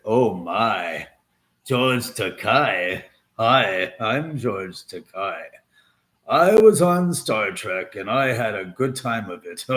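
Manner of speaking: light imitation of a slow, drawn-out celebrity voice; lightly imitated celebrity voice; George Takei impression. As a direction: draw out "Oh my" lazily. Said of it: "that sounds like, uh, what's his face".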